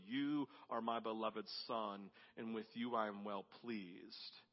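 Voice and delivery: slow, softened and intimate; very personally. Shown as a demonstration. Preacher voicing God speaking to his Son, very personally. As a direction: say it like a father looking at his son. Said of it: "very personally".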